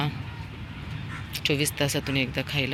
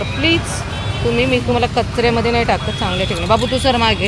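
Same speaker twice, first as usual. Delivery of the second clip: coaxing plea; 7 semitones higher, 5 dB louder than usual. Real, not acted. Pleading with dogs while feeding.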